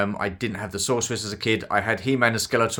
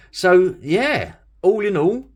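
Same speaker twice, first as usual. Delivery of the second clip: deadpan "overjoyed", pitched higher, dry sarcasm; mock overjoyed; 9 semitones higher, 4 dB louder, slower than usual. Real, not acted. Collector teasing viewers about his excitement, mock overjoyed. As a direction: sound overjoyed while obviously teasing. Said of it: "as you could tell by the excitement in my voice".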